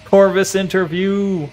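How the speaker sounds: slow, announced like a video title; a touch of hyped host; YouTube title voice. Pretend. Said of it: "That's more, more engaging".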